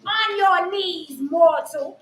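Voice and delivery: slow commanding overlord; hammed-up villain decree; dark lord.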